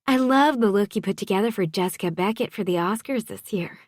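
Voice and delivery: high-pitched, gushing socialite; admiring friend. A narrator's reading. Wife's friend praising the stylist's Oscars look, gushing. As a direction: heap on praise in a high character voice.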